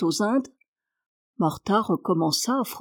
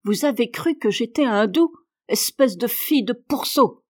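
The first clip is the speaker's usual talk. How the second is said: furious; 3 semitones higher than usual. Acted. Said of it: "Marie, furieuse".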